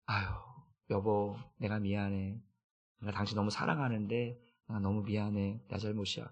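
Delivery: a hushed sorry to a spouse after a quarrel; tender apology. Retold or imitated.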